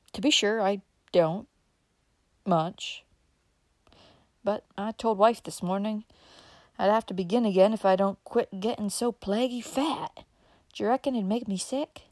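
chatty rural uncle, puffing after sitting; old country uncle. Acted. Uncle Bobby chatting to Dick in the print shop, folksy old man.

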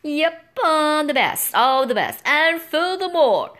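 brash, boastful knight voice; bragging knight. A narrator's reading. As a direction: crow about yourself. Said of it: "the night bragged on".

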